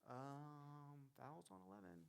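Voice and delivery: very soft, low, hesitant mumble. Shown as a demonstration. Unsure referee announcing a foul, timid and quiet. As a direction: shrink away as you make the call. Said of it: "Are you down and low?".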